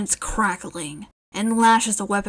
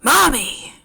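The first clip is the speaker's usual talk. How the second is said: loud, higher frustrated yell; 5 semitones higher, 5 dB louder than usual. Acted. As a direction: yell the name to get attention. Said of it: "Spinner yelled out".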